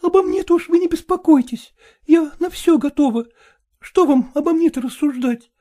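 a hint of a desperate woman begging; begging young woman. Катерина begs. (отчаянная мольба, слегка)

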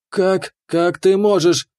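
tearful cry. Acted. The betrayed fairy cries out at the keeper. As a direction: cry out through tears. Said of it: "со слезами на глазах выкрикнула".

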